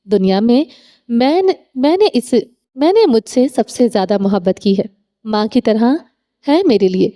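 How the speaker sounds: stammering, a touch of held-back tears; halting, tearful. Acted. A frightened girl tells him about her sister, mildly halting and tearful. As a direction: falter through it, lightly voiced. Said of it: "پھر اٹک اٹک کر بولنے لگی".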